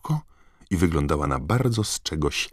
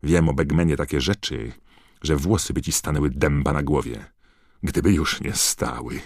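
spiteful. Acted. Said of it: "dodała złośliwie".

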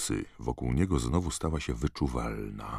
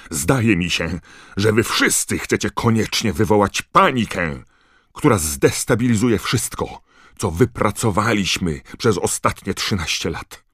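gniewnie; 7 semitones higher, 8 dB louder than usual. Acted. Minister gniewnie oskarża zebranych.

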